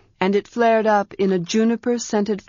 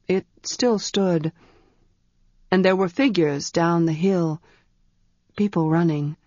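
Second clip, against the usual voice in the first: a hint of a grave young man; lightly voiced mage. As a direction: speak as the steady wizard telling what he saw. Ged speaks in the story.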